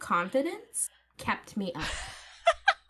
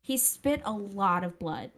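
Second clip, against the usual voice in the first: put-on Valley girl accent. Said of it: "The Valley Girl accent makes it so much better".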